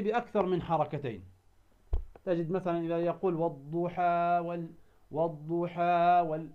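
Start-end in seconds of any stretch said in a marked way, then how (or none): 3.3-6.5 والضحى وال- with the final "haa" stretched too long; wrong recitation of والضحى, aa held past two counts; overlong madd. Shown as a demonstration. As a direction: drag out the last vowel of والضحى. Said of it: "هذا خطأ".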